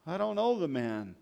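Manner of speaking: a hint of cursing fury; mild mock curse. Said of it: "he began to curse violently".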